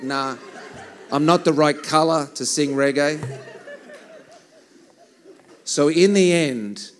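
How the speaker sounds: loud laughing aside. Real, not acted. Joking to the church crowd, laughing. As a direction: laugh through the joke.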